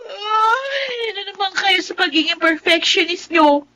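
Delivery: defiant shout. Acted. Daughter talks back to mother.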